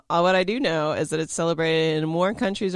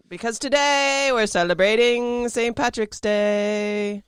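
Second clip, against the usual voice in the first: slow, higher mock Irish lilt; mock Irish accent; 7 semitones higher, 8 dB louder, slower than usual. Host announces Saint Patrick's Day in a hammed-up Irish accent. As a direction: ham up the Irish accent for the holiday.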